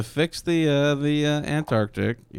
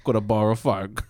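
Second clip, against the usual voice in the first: shaky attempt at an Australian accent; bad Australian accent. Pretend kid asking for a cigarette, bad Australian accent. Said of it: "That is not Australian at all".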